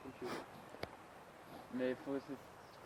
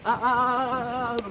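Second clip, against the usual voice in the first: panicked cries; 8 semitones higher, 9 dB louder than usual. Real, not acted. Panicked cry on bike.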